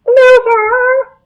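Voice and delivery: shrill-high yell of Loser into the mic; high shouted taunt. Retold or imitated. Player mocking the ref over his microphone, high shout. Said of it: "shouted in a high voice".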